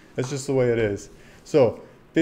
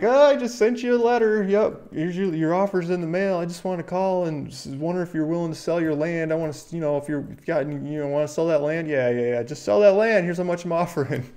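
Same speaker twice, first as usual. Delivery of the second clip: eager cold caller; 5 semitones higher than usual. Pretend. Land buyer cold-calling an owner, chirpy sales pitch. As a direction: play a keen land buyer on the phone. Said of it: "It's like".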